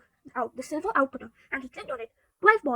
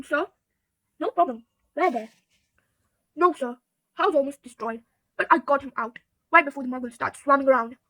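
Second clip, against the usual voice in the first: Hagrid; 4 dB louder than usual. Acted. Hagrid voiced in read story.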